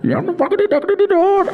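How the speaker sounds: very high, fast mock screech; angry voice note. Replaying the buyer's voice note, high mock yell. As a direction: squeal it like the furious buyer.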